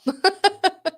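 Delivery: a short high laugh, light and amused. Real, not acted. Real laugh after crying story.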